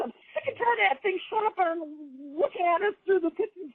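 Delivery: lightly voiced fed-up old woman grumbling; grumpy farm lady. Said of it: "She's one of those old grumpy farm ladies".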